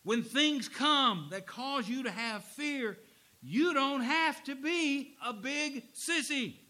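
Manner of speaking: loud, slow, high exhortation; preaching at full force. Real, not acted. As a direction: drive it home from the pulpit.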